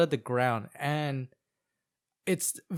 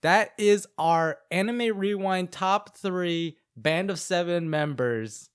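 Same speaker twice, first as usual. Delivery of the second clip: slow show-host call; announcer; slower than usual. Acted. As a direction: present the title grandly. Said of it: "show title".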